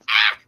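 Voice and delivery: short strained ah to free the hook; small grunt of effort; little effort grunt. Shown as a demonstration. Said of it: "if you make that little noise".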